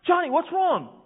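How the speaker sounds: loud, high urgent call. Retold or imitated. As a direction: call out to the boy in alarm. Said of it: "the lifeguard says".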